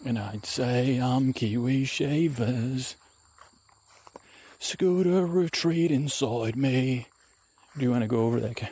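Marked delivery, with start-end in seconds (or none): 1.0-7.1 lightly voiced drawn-out adventurer; Kiwi Shavers character. Introducing himself to the camera, lightly put-on adventurer voice. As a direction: stretch the words as an odd adventurer.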